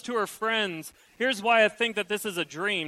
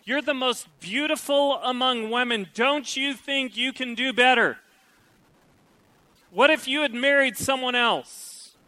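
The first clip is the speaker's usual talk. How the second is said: insistent, louder coaxing questions; tempting friends; 4 semitones higher, 4 dB louder than usual. Retold or imitated. Friends urging the bride she could do better, coaxing. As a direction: needle her to doubt. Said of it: "They're saying".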